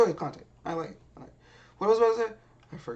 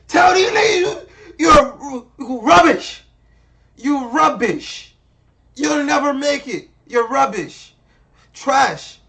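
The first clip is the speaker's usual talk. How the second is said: mock harsh judge; 2 semitones higher, 5 dB louder than usual. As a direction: hammer the insults like a nasty judge. Mocks Simon's harsh put-downs.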